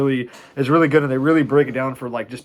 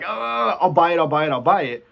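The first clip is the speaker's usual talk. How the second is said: hurried, louder, mock-panicked repeats; panicky caving; 6 semitones higher, 4 dB louder than usual. Short seller cornered by a rising price, mock panic. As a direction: blurt it out like you're cornered.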